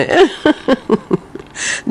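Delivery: a bright high laugh while teasing; quick high giggle. Real, not acted. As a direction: laugh playfully at the listener's news. Teasing a listener about the turtle.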